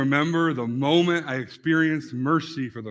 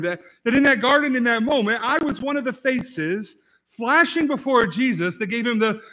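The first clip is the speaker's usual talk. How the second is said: rising fervor; 4 semitones higher than usual. Real, not acted. Preacher's rising confession.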